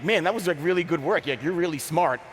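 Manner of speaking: throwing shade with overdone praise; sarcastic praise. Retold or imitated. Throwing shade at a colleague for a comment, sarcastic praise. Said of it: "I'll throw shade at someone".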